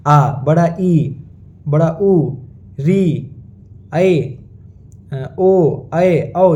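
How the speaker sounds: आ, ई, उ, री, ऐ, ओ, औ held for two beats; long vowels. Shown as a demonstration. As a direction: stretch each vowel from आ to औ. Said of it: "ये सारी दीर्घ स्वर हैं". (आ से औ तक दीर्घ, खींचे हुए स्वर)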